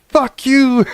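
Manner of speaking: high-pitched outburst of mock rage; snapped yell. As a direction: replay snapping at the chatbot. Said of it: "just snapped on it".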